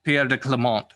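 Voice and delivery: "Pierre de Clement" said the French way; French pronunciation. Shown as a demonstration. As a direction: say "Clement" as kluh-MON, French style. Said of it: "the French pronunciation is".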